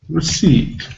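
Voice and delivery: receipt with a weak first syllable. Shown as a demonstration. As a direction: say receipt with a light, reduced re-. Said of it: "The first syllable will just be spelled".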